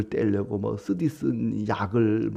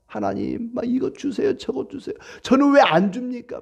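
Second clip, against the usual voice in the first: pitched up, whining demands; whining child-like believer; 11 semitones higher than usual. Retold or imitated. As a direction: whine to God like a fussing baby. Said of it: "막 떼를 쓰면서 보채고". (보채는 아이처럼 높고 칭얼대는 목소리)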